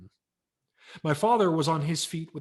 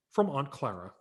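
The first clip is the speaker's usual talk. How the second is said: high, loud gift-tag read; excited reading; 5 semitones higher, 7 dB louder than usual. Acted. Boy reading his gift tag, excited. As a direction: read the tag with a rush of hope.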